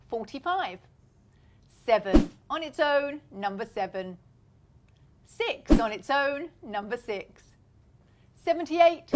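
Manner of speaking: sing-song bingo calling, rising on the middle; bingo caller. Acted. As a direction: call the numbers like a bingo hall.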